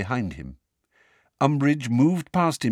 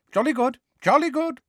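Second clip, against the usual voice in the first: hearty. A narrator's reading. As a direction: boom out hearty approval. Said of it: "said Fudge heartily".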